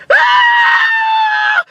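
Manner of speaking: very high, long coaster shriek; imitated scream. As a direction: scream through the drop. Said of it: "I know I'm screaming".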